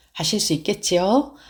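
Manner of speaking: ordinary delivery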